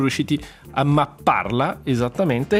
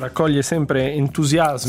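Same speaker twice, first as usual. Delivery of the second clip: slow, understated sarcasm; sarcastic. Real, not acted. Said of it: "Sento il sarcasmo nella tua voce".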